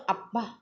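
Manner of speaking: a mild acted groan of pain; light, understated moan of a woman waking with a headache. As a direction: let out a small hurt "అబ్బా" as the head throbs. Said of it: "బాధగా మూలిగింది".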